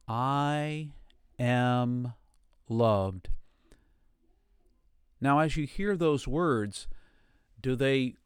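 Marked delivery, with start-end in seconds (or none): 0.1-3.3 word by word, slowly; paced affirmation. Shown as a demonstration. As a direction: leave space between each word. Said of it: "And again".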